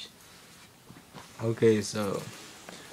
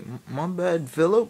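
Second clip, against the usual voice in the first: high, raised-voice sheepish apology; pleading apology; 7 semitones higher, 5 dB louder than usual. Retold or imitated. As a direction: plead with an angry teammate. Apologising to angry Philip.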